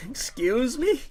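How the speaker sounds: broken up audio dropout; glitchy cutting-out sound. Real, not acted. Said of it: "the audio keeps cutting out".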